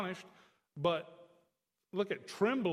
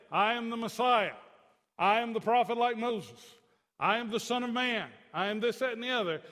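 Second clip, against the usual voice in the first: proclaiming boast; 4 semitones higher, 5 dB louder than usual. Retold or imitated. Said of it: "He didn't say".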